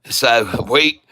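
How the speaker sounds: a light, hammed-up Southern hillbilly accent; Southern hillbilly accent, lightly put on. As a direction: play a Southern country farmer, only lightly. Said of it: "Can you do a hillbilly voice?".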